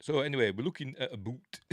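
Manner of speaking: jokey Canadian accent with "boot" for "about"; mock Canadian accent. Shown as a demonstration. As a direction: lightly put on a Canadian accent. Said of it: "so I'll do a Canadian accent".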